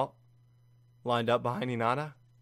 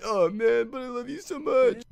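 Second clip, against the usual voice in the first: excited gushing; 11 semitones higher, 4 dB louder than usual. Real, not acted. Gushing over a character.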